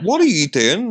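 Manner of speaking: a dad amazed at his daughter; baffled dad. Retold or imitated. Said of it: "I'm like".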